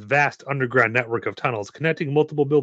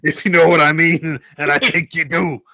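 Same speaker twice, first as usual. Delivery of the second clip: suggestive; 3 semitones higher, 5 dB louder than usual. Acted. Suggestive innuendo aside.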